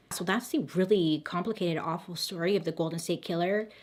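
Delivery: hoarse, worn-out voice. Real, not acted. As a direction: talk through a tired, hoarse throat. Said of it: "I'm losing my voice".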